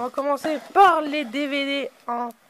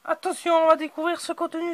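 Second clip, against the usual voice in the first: higher, fast and eager; excited announcement; 5 semitones higher, faster than usual. Pretend. Host hyping the box opening for viewers, quick and excited. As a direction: rush it out like a game show reveal.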